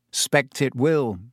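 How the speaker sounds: slow, heavy and resigned; heavily. Acted. Harry answers Hermione knowing he cannot go, slow and heavy. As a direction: drag the words out glumly. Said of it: "said Harry heavily".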